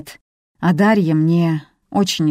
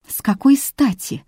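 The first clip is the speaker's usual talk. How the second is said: sudden much higher indignant retort; flaring up; 8 semitones higher than usual. A narrator's reading. Elena flares up at Viktoria over the chandelier, much higher. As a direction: flare up in outrage. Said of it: "вспыхнула Елена".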